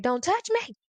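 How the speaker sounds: put-on high, frightened child's plea; scared refusal. A scared child to the people reaching for her, high and frightened. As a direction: back away as you say it, pitch up.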